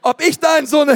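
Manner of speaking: holpriger Versuch eines fränkischen Akzents, höher; fränkisch nachgemacht, etwas lauter; fränkischer Akzent. Retold or imitated. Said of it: "ich kann diesen fränkischen Akzent einfach nicht". (misslungener fränkischer Akzent)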